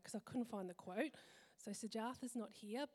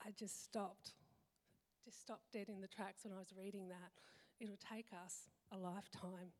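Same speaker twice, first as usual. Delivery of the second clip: softer, voice catching with real feeling; real emotion; 6 dB quieter than usual. Real, not acted. Mum moved by a book line, quietly emotional. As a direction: hold back tears as the words land. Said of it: "Sorry, I'm a bit emotional".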